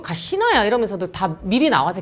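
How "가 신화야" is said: lightly voiced, high, gruff dialect call; a hint of a curt Gyeongsang boyfriend. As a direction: toss off the name bluntly in Gyeongsang style. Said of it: "쓰레기가 되게 무뚝뚝".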